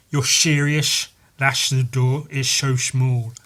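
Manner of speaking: words forced through clenched teeth; gritted teeth. Retold or imitated. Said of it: "talking through gritted teeth".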